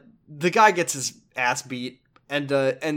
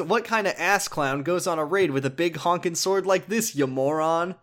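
pissed off man; 4 semitones higher than usual. Retold or imitated. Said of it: "a pissed off man".

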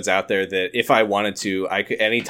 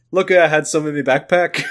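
imitating Ryan; 4 semitones higher, 3 dB louder than usual. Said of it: "It's the exact same tone".

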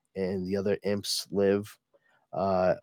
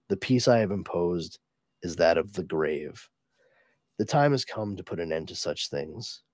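low, measured farewell speech; understated regal gravity, sombre and reflective; lightly voiced solemn sovereign; 5 semitones lower than usual.

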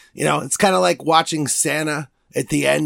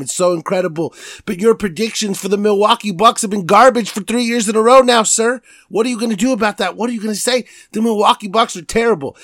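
scolding himself. Acted. Host scolding himself over Bucks picks, mock-angry. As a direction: chew yourself out. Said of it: "This is me talking to me right now".

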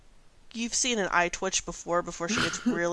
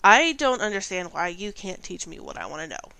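defensive protest, pushed louder at the start; 6 dB louder than usual. Acted. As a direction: protest as if unfairly refused. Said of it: "takes a defensive stance".

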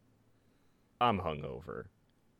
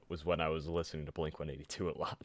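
fast, soft whispered confession; embarrassed whisper; 4 semitones lower, 6 dB quieter, faster than usual. Real, not acted. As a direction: admit it under your breath.

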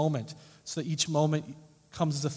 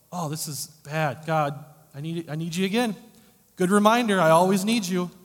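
mock prayer; 4 semitones higher, 10 dB louder than usual. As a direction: pray it out, rising to a cry. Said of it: "I should go".

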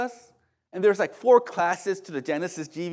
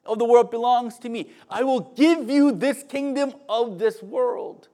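loud, grand offer in a lightly played devil role; big, emphatic mock-devil offer; tempting devil; 7 semitones higher, 8 dB louder than usual. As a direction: proclaim it high and loud as the preacher's tempter. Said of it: "He says".

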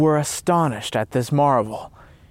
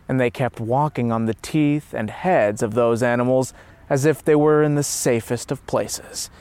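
plain reading voice

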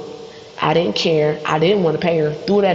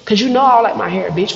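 snapping back; 5 semitones higher than usual. Retold or imitated. Snapping at cousins.

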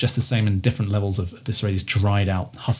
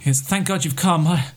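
a touch higher, eager rescued pilot; lightly voiced pilot; 4 semitones higher than usual. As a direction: talk fast and relieved, a bit high. GM voices stranded pilot Rory.

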